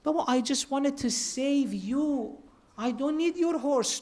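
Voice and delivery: softly reassuring, no reproach; gentle loving tone. Retold or imitated. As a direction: say it like a caring father to his child. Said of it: "Why do we change the tone of Hussein from".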